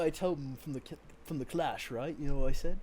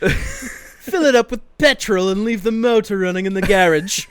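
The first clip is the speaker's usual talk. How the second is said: loud laughing; 3 semitones higher, 11 dB louder than usual. Real, not acted. Loud laughing mock quote.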